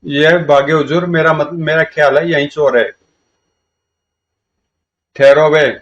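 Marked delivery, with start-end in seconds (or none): 5.1-5.7 loud rough order to stop; shouted halt. Acted. Ordering the fleeing men to stop, loud. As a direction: bark at them to stop. Chasing the thieves.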